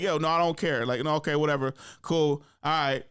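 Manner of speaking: acted offhand brush-off; dismissive. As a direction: wave them away as if you don't care. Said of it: "Just very dismissive".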